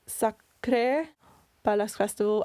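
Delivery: careful French pronunciation of "Sacré"; French accent. Shown as a demonstration. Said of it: "In a French accent".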